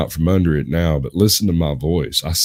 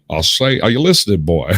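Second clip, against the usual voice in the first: Foghorn Leghorn; 2 semitones higher than usual. Retold or imitated. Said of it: "He's so just casually disrespectful".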